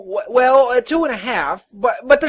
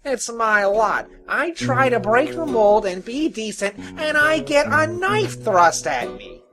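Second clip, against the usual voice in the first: high, loud self-pitying tinker; aggrieved high-pitched whine; moaning; 11 semitones higher, 9 dB louder than usual. Acted. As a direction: bemoan your sorry lot. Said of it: "the tinker moaned".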